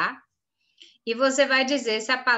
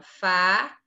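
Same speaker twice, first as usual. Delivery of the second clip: "fábrica" broken into fá, bri, ca with pauses; syllable by syllable; 3 semitones lower, 4 dB louder than usual. Shown as a demonstration. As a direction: read out "fábrica" one separate syllable at a time. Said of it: "Desembaralhe as sílabas".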